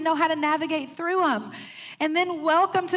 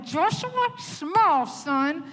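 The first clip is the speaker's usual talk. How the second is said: coaxing mom; 2 semitones higher, much slower than usual. Retold or imitated. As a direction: coax the boy to smile for the photo, mildly. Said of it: "And I'm going".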